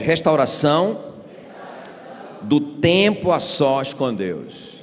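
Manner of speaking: slow, called out with force. Shown as a demonstration. Pastor leading the congregation, slow forceful shout. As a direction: lean on each word, slowly. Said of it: "Não, grita bem forte".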